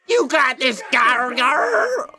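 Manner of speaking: cheering with a rolled R. Shown as a demonstration. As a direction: roll the R on Gar Gar. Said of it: "Why am I rolling the R?".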